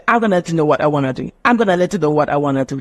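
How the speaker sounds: quick, run-together gonna and wanna; casual Cockney example. Shown as a demonstration. Teacher demonstrating informal British English, fast and casual. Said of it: "That's clock English".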